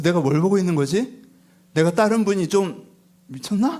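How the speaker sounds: lightly acted bafflement at full voice; puzzled disbelief. Disciple watching Jesus scold the sea, mildly baffled. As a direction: wonder aloud if he has lost it.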